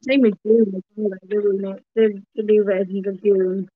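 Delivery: muffled, like a hand over the mouth. Real, not acted. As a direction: speak through a covered mouth. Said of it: "you're a little bit m-, m-, uh, muffled there".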